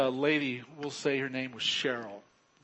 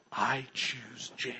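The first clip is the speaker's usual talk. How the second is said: a slow, mildly proud announcement, barely raised; Bradley naming Jane, a hint of pride, not really louder; loudly and proudly; 3 semitones lower, slower than usual. Boy calling out his partner's name, understated proud voice. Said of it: "loudly and proudly".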